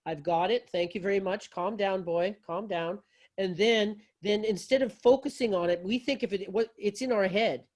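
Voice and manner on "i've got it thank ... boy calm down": soft, soothing, settling a nervous dog; calm reassurance to an anxious rescue dog. Shown as a demonstration. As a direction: talk the rescue dog down gently and kindly. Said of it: "And in a very calm voice".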